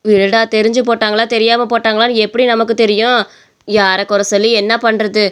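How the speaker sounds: lightly voiced calm, weary mother; resigned mother. Mother calming her son over blame, resigned. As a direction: let the blame go.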